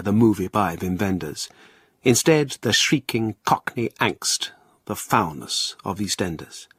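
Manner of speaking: measured, dramatic poetry reading; earnest poetry recital, slightly theatrical; poem recital. Acted. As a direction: declaim it like a serious poet at a reading. Poet reads his own poem.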